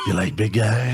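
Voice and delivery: mock-seductive creep voice; creepy come-on. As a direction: proposition them creepily, hammed up. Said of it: "sent chills up my spine".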